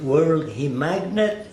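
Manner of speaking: put-on slow, wondering question in a light Arabic accent; imitated Arabic accent. Elbaz amazed at the balloon trick, slow imitated Arabic accent. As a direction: drawl it out as an astonished man in an Arabic accent. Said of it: "I know his dialect".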